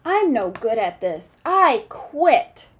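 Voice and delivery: frustrated quitting, rising on I quit; giving up. Acted. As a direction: throw in the towel, fed up.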